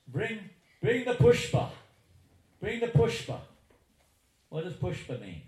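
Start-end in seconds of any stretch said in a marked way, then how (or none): 0.1-3.4 high and loud, calling out for the flowers; the guru calling out, much higher and louder; Prabhupada calling out. Retold or imitated. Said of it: "And Prabhupada said".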